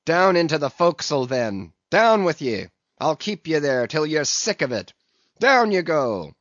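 loud, fast angry commands; angry orders. Acted. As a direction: drive them below with your voice. Captain ordering men below.

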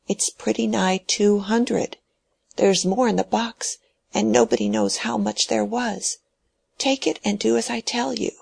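lightly voiced old man pressing money on her; stubborn old man.

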